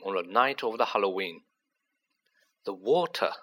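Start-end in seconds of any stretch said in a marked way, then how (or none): 2.6-3.3 slow. Acted. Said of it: "he said slowly".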